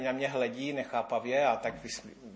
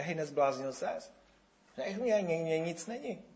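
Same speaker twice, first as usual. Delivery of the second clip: indignant yell; 4 semitones higher than usual. Retold or imitated. Healthy man shouting at the doctor, mild mock yell.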